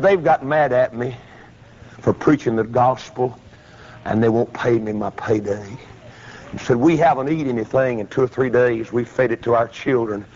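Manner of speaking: low, downcast retelling; subdued hungry preacher. Retold or imitated. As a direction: lightly voice a man admitting hardship. Retelling hungry preacher's sad account.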